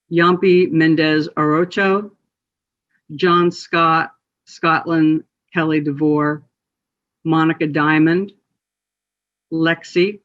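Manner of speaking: measured list of names, a pause after each; solemn roll call. Acted. Host reading names for Transgender Remembrance, solemn roll call. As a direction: read each name out with care, evenly spaced.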